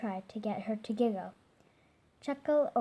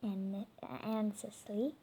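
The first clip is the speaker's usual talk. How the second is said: stumbling read; 7 dB quieter, slower than usual. Real, not acted. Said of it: "What is this?".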